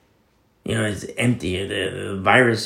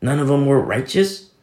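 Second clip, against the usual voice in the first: lightly mimicking a so-called learned scoffer; a touch of a doubting scholar; mock learned skeptic. Preacher mimicking mockers and learned people, mild scoff.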